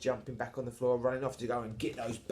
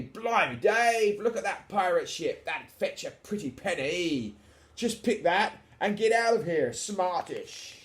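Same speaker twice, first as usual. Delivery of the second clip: higher, louder Cockney-style crook; excited burglar; 7 semitones higher, 5 dB louder, slower than usual. Acted. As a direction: exclaim like a storybook thief. Burglar exclaims over pirate ship.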